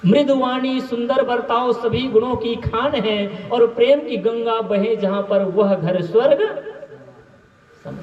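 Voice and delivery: even-toned devotional verse, held on a steady note; verse recitation. Shown as a demonstration. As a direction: recite the couplet in measured, level tones. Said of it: "बस पद को सुनाता हूँ".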